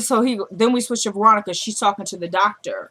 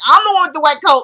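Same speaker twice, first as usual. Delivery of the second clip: raised, indignant mock protest; mildly mad; 5 semitones higher, 6 dB louder, faster than usual. Doctor pulling rank on the patient, mock-indignant. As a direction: pitch it up and louder, affronted. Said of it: "he was looking mad".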